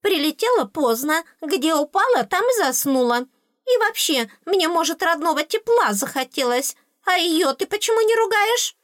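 very high-pitched complaining fairy; indignant little fairy. Acted. Tooth fairy justifying herself to the princess, high and indignant. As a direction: protest in a high tiny fairy voice.

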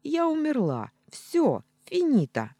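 loud, high dramatic cry; 1 loud outcry. Acted. Heroine dramatically declares she is dead, loud high cry. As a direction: cry out theatrically, pitch way up.

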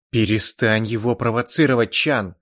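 loud angry shout. Acted. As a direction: snap at him. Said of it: "злобно крикнул я".

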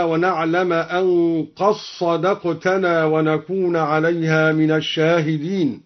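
قد صدقتنا run together as "qas-sadaqtana"; dal merged into sad. Shown as a demonstration. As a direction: recite قد صدقتنا with no d, a doubled emphatic s. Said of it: "وكذلك أدغم الدال في الصاد".

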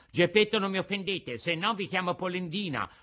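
high-pitched indignant warning; threatening. A narrator's reading. Carpenter threatens name-calling in a quarrel, high and indignant. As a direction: warn him off in a high character voice.

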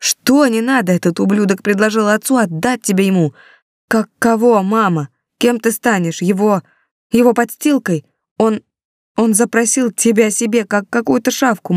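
выше, с надрывом, гневно; юноша кричит на мать; возмущённый сын. A narrator's reading. (сын в гневе упрекает мать)

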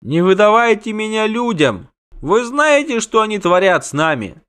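high, desperate creature plea; pleading wail. A narrator's reading. Doppler begs not to be handed over, wailing. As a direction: beg for mercy, voice pitched high. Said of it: "душераздирающе завопил Доплер".

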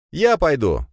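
loud, high eager shout. Acted. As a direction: call out to volunteer. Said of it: "выкрикнул я". (выкрик)

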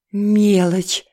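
lightly pleased, nearly cheerful; almost joyful. A narrator's reading. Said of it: "согласилась Елена почти радостно".

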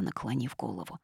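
ordinary delivery

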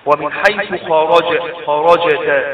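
slow loud خرجت with a bounced ج; qalqalah on ج. Shown as a demonstration. Teacher demonstrating ج in خرجت, slowly bounced qalqalah. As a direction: break on the ج of خرجت and echo it. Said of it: "جيم في خرجت".

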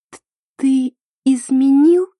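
high, slow, broken question; a betrayed girl asking her boyfriend if he cheated; trembling voice. A narrator's reading. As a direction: barely get the words out. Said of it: "с дрожью в голосе".

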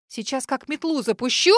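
usual speaking voice

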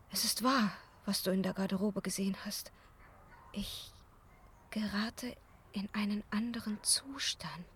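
whispered to Raoul, afraid to be heard; hushed confession. Acted. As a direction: let the secret slip out in a whisper.

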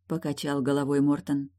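ordinary delivery

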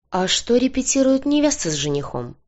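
guarded female character's question; wary question. A narrator's reading. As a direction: probe suspiciously, voice lifted. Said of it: "настороженно уточнила".

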